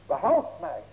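loud plea for rescue; crying out. Acted. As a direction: call it out urgently. Preacher repeats Peter's cry.

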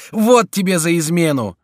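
high loud punishing line; furious taunt; angry blow. A narrator's reading. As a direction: strike on each word. Chico beating the duke.

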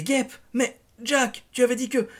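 high, loud panicked stammer; frightened, high-pitched disbelief; dawning alarm. A narrator's reading. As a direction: protest in alarm as it sinks in. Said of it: "et elle comprit".

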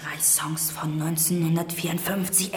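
soft unvoiced whisper; hushed reminder to a scared friend. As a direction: breathe it like a secret. Coach whispers encouragement.

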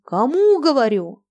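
high furious yell; terrible shout. Acted. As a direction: roar the order fiercely. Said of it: "закричал страшным голосом".

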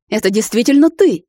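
hint of a stunned father; amazed father. A narrator's reading. Father seeing his lost daughter, amazed.

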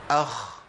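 اخ with the خ held, breath running out; أخ بخاء ساكنة مهموسة; sukoon kha. Shown as a demonstration. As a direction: say اخ letting air hiss through the خ. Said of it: "هقول ايه؟".

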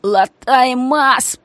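slow whining plea; drawn-out hurt whimper; whine. Acted. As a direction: moan it, hurt and pitiful. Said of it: "проныл ушибленный".

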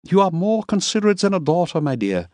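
put-on oily compliment to a young woman; leering Miller. A narrator's reading. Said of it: "The teeth leered at her".

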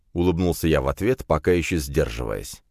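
plain reading voice

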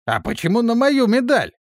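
high, loud indignant surprise; surprised. A narrator's reading. Old guard surprised at betting his own medal. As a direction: protest in shocked disbelief. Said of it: "удивлённо спросил мессир".

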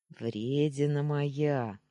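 slow, contented purr on Вредина моя; pleased purr. Acted. Boyfriend fondly teasing his girl on the phone, slow pleased purr. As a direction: savour Вредина моя like a happy cat. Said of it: "довольно проурчал Даня".

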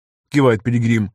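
plain reading voice

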